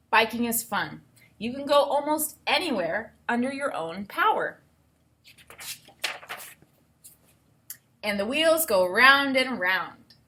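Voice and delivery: clear, even read-aloud voice; reading to children. Acted. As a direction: read the book to the class. Teacher reads book aloud.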